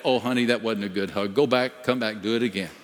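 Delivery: quick, lightly voiced father scolding a hug; a fussy dad rejecting his child's hug; mock picky daddy. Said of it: "Does the daddy ever get a hug and say".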